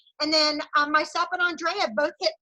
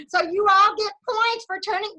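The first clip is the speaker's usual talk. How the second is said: talking through a laugh; words bubbling with laughter; 5 semitones higher, 6 dB louder than usual. Real, not acted. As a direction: still giggling while speaking. Laughing at rhyming names.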